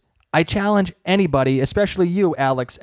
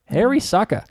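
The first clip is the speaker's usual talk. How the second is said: relishing the name; 7 semitones higher than usual. Shown as a demonstration. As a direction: roll the name around like a treat. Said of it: "God, I love that name".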